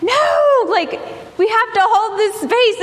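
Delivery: sharp loud high "No!"; emphatic no. Retold or imitated. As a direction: shut the question down firmly. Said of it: "to me being like".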